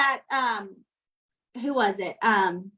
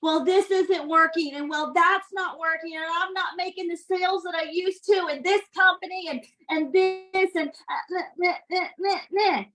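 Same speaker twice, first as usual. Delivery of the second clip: high, whiny complaining parody; a mocking whiny voice; whiny mockery; 3 semitones higher than usual. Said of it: "You are whiners".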